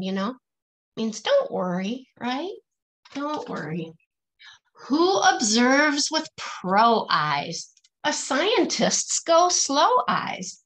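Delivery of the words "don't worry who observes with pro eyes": ordinary delivery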